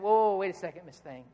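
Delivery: imitating a stern interrupting father; stern dad. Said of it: "I was very stern".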